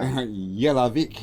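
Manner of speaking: very slow Croatian accent. Shown as a demonstration. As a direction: stretch the name out like a Croatian. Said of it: "with a Croatian accent there".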